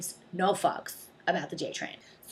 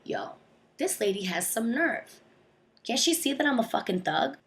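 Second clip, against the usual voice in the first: mock thug; 4 semitones higher than usual. To herself about the nosy old lady, mock thug bravado. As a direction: play it like a wannabe gangster. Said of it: "I'm just thinking to myself".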